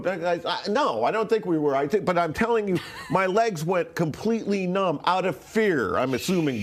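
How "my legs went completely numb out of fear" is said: laughing. Real, not acted. Laughs while recounting the fear.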